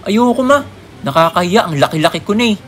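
put-on embarrassed kid protesting; whiny kid. Child whining to mother.

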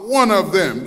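slow, deliberate retold accusation; greater certainty. Woman identifying Peter to bystanders, certain accusation. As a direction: state it as a certain accuser, leaning on each word. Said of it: "she spoke with greater certainty".

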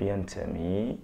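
dictating the answer slowly, word by word; slow, dictated exam answer; slow model answer. Shown as a demonstration. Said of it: "راح تقول لي في الجواب".

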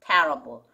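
terrible led by TER, then dropping low; first-syllable stress. Shown as a demonstration. Teacher setting two lookalike words apart, terrible stressed on "TER". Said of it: "앞에 강세가 있어요".

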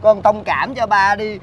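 pleading. Acted. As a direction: coax the child gently. Father begs the child.

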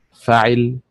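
فعل with the stress on the فاء; stress on first syllable. Shown as a demonstration. Teacher demonstrating stress on فعل, first syllable stressed. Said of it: "بالنبر على حركة الفاء".

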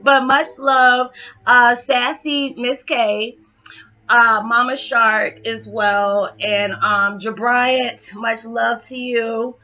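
holding back tears while thanking; emotional. Real, not acted. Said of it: "all those things are going on for me".

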